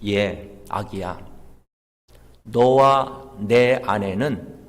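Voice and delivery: low, measured voice of a mother snake; mother snake answering. Retold or imitated. Mother snake explaining their poison to her baby, low and grave. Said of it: "엄마 독사가 새끼 독사한테 하는 말이".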